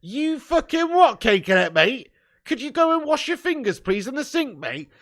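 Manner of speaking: high, loud, hammed-up disbelief; mock outrage. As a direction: play up the shock at a viewer's comment. Mock outrage at chat comment.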